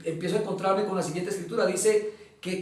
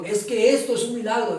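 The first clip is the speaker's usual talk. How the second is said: insistent retold exclamation, pitched up; 4 semitones higher, 4 dB louder than usual. Notifier to stunned prisoner about the miracle, insistent. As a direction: press the point, higher. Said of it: "me decía reiterativamente".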